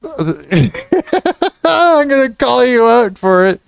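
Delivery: talking through a laugh. Real, not acted. Streamer threatens to expose chat's fraud, laughing. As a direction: laugh your way into the warning. Laughing while warning the chat.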